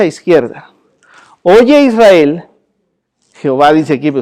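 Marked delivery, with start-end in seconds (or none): 1.4-2.4 very slow, deliberate scripture reading; slow solemn Shema. Shown as a demonstration. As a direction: read each word out slowly and weightily. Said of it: "reading the Shema aloud".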